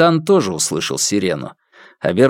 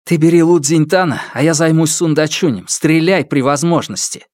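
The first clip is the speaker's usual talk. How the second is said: urgent orders; 6 semitones higher than usual. Acted. Officer gives orders in standoff.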